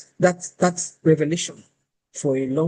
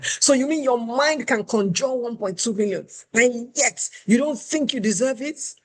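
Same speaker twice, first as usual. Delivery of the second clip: higher, slowing incredulous scold; madder recruiter; 6 semitones higher than usual. Retold or imitated. Recruiter scolding the candidate for underselling, incredulous. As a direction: drag out the disbelief. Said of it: "She got even madder".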